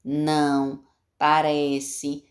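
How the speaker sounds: each of "zigue", "não", "parece" set apart and held; word by word. Shown as a demonstration. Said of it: "cada palavrinha assim".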